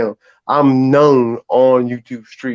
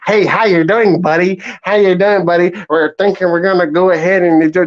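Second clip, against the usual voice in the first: polite white guy; 4 semitones higher than usual. Retold or imitated. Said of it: "They think a white guy".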